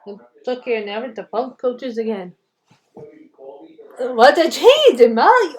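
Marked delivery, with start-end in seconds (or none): 4.0-5.5 slow, loud, drawn-out; slow booming. Acted. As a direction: boom it out slowly. Mock dramatic aside.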